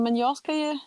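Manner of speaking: high-pitched, disbelieving objection; retold protest. Patient tells doctors she has a show in Spain, protesting. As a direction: plead your case, voice pitched well up. Protests being operated on now.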